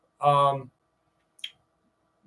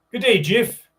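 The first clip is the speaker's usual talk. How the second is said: higher, louder mock South African accent with rising day; Good day, Jiff in a hammed-up South African twang; South African accent attempt; 6 semitones higher, 5 dB louder than usual. Retrying friend Gringo's South African accent, higher and louder. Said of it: "How do South African people talk?".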